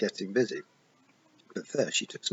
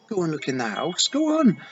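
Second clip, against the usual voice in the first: a touch louder, sharp "Go on."; panicked mother sends Tiffany to look; urgent order; 8 semitones higher, 6 dB louder than usual. Acted. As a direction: hurry her off.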